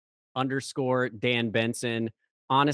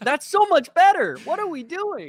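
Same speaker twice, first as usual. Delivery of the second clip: squeaky, much higher, excited, laughing; excited squeal; 6 dB louder than usual. Retold or imitated. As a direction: gush with giddy disbelief. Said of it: "and I was like".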